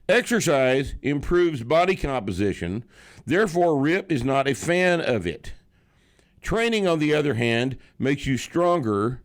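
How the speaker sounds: high, loud, declaimed reading; comment read-out. Acted. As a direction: proclaim the listener's comment word by word. Reads a listener comment aloud.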